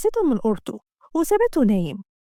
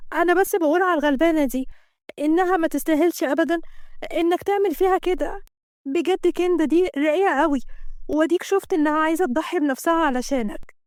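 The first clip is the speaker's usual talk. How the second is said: higher-pitched pleading woman; earnest, raised female character voice; protesting female employee; 4 semitones higher than usual. Acted. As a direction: stand up for a wronged friend.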